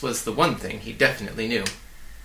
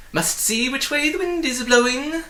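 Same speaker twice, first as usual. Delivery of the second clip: chuckling; 13 semitones higher, 5 dB louder than usual. Acted. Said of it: "chuckling over his little joke".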